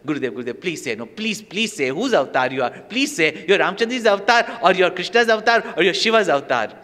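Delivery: put-on pleading like a child; mild childlike begging. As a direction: beg like an eager child. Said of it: "like a child was asking".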